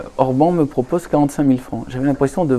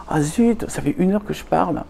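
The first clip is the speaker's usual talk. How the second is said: fausse surprise; 6 semitones higher than usual. Retold or imitated. L'éditrice s'aperçoit de l'heure.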